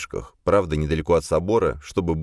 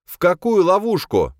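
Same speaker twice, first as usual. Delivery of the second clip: high, louder astonished question; 14 semitones higher, 5 dB louder than usual. Acted. Boya stunned by the trap idea, high and loud. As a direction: eyebrows shooting up. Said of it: "Брови Боя взлетели на лоб".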